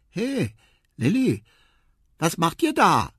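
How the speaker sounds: high, loud calling out; young elephant calling. Acted. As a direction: call over to your sister. Quawa calls to sister. (hoch und laut rufend)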